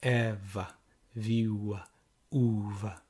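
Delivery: Eva viu a uva in a steady two-four beat; two-four rhythm. Shown as a demonstration. Teacher to class, beating out the rhythm. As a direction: tap out a march-like rhythm. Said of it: "like the two four time signature".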